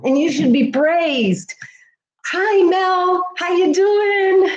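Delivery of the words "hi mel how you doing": choked-up greeting. Real, not acted. Greets viewer while choked up.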